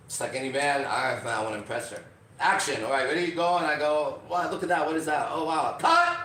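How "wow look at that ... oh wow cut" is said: mild hammed-up fake surprise; corny wooden acting of wonder. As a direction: overact looking at something amazing. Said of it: "sounds fake".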